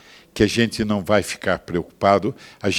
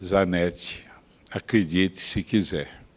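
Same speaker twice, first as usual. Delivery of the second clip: whisper; 3 semitones lower, 7 dB quieter, slower than usual. Real, not acted. Preacher confides to Zanetti.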